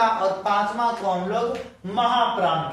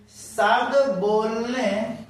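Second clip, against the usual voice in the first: question read aloud; 2 semitones higher, much slower than usual. Shown as a demonstration. Reads exam question slowly aloud.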